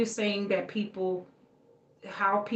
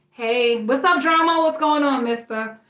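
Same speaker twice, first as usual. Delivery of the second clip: loud, high hello to a friend; excited greeting; 6 semitones higher, 9 dB louder than usual. Real, not acted. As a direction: call out happily to whoever just arrived. Greeting someone who walks in.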